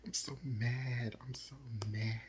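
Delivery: drawn-out venting after a laugh; real exasperation. Real, not acted. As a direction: stretch out each complaint in exasperation. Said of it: "freaking pissed off".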